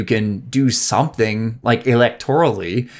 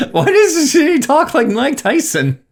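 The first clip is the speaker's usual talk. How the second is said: laughing; 13 semitones higher than usual. Real, not acted. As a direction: laugh while asking. Laughing at the dog voice.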